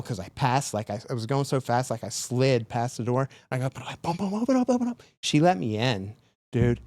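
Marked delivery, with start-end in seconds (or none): 3.7-5.0 high, frantic call to open; urgent pleading. Retold or imitated. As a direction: beg at the door, out of breath. Banging on door, begging entry.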